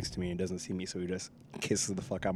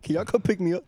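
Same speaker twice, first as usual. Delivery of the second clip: much higher, whiny plea for a ride; mock stranded driver; 9 semitones higher, 3 dB louder than usual. Friend mocking buddy stranded without gas, high whiny plea. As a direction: whimper it like a helpless friend out of gas.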